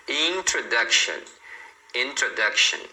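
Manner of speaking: introduction with a clear T before R; T pronounced. Shown as a demonstration. Teacher models T before R, clearly pronounced in introduction. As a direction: keep the T sound in introduction. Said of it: "você tem que falar o T mesmo".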